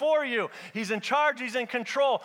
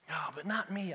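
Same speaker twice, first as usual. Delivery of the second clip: low, soft self-doubting objection; doubter's thought; 6 semitones lower, 10 dB quieter than usual. Acted. Preacher voicing the congregation's doubts, low and quiet. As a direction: think it aloud, small and low. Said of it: "I hear some of you thinking".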